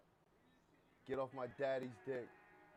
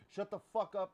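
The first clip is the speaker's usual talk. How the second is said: higher, louder angry yell; angry shout; 6 semitones higher, 6 dB louder than usual. Real, not acted. Streamer yelling at a chatter, angry shout.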